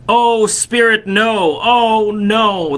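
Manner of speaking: high, pleading cry of terror; desperate cry. A narrator's reading. Scrooge begs the spirit at the grave, crying out in terror. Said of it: "he cried upon his knees".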